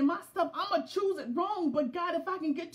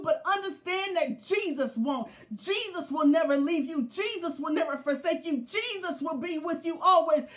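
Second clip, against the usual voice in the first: preaching louder and louder; rising preaching; 3 dB louder than usual. Acted. Preacher to the congregation, rising into loud preaching. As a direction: drive it home to the congregation. Preaching builds to full force.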